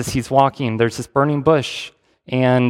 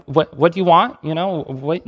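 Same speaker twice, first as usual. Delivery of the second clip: mock threat; 3 semitones higher than usual. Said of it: "Did Jesus threaten them?".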